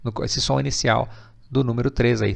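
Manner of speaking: ordinary talk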